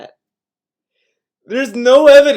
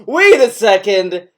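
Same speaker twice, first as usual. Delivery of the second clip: wait, hold up, said loudly; loud interruption; 5 dB louder, slower than usual. Real, not acted. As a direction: cut in loudly. Interrupting to call out.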